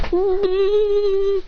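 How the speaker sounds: long steady high hum; drawn-out closed-mouth whine; high hummed "mm". Acted. Reluctant group reaction.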